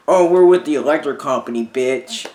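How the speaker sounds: mock scammer at the door. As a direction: mimic a rude scammer announcing himself. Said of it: "who goes around in fucking plain clothing and be like".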